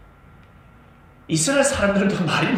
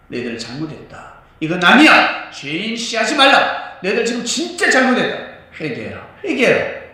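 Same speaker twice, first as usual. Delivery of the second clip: 외침; 6 semitones higher, 7 dB louder than usual. Acted. 제자들이 외치는 장면.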